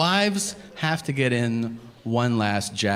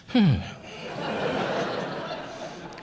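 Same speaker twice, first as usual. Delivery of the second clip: long, breath-catching exhale; real out-of-breath sigh; winded sigh; 8 semitones higher, 4 dB quieter than usual. Real, not acted. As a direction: puff out a tired breath. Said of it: "how winded I got".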